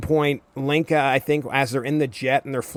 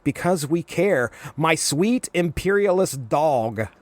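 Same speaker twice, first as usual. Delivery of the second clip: higher, slow sweetly sarcastic jab; mock Linka; 4 semitones higher, slower than usual. Linka answering Wheeler on the beach, slow mock-sweet. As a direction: purr the insult like a fake endearment. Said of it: "And Linka's like".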